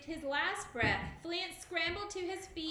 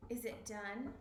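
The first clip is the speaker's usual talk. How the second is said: whispered; 3 semitones lower, 6 dB quieter than usual. A narrator's reading. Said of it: "he whispered".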